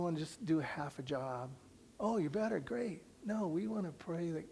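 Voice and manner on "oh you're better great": dismissive. Retold or imitated. Mocking half-hearted prayer.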